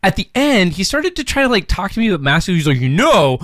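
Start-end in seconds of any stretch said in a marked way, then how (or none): 2.8-3.4 lecturing voice. Retold or imitated. Imitating maintenance guy lecturing.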